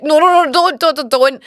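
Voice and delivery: high, loud panicked no's; alarmed protest. Retold or imitated. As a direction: stop her before she falls. Bouncer refusing trust fall.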